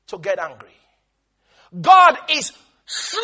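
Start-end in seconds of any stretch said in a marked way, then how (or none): 1.8-3.3 SLOW stretched out very long; drawn-out emphasis. Shown as a demonstration. Preacher stressing God's patience, SLOW drawn right out. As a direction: hold the vowel of SLOW, raised and slow.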